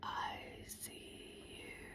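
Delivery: eerie, creepy, hushed, breathy whisper. Retelling a video where a wife talks through the Ring camera: imitating a creepy voice. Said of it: "in a creepy voice".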